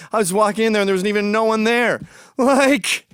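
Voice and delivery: high-pitched imitation of valley-girl chatter; mock valley girl. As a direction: mimic a valley girl punctuating with "like". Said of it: "You sound like a valley girl".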